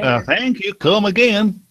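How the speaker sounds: put-on high caricature of an Indian accent; mock Indian accent. Joking after a failed accent attempt, mock Indian accent. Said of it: "you sound like an Indian".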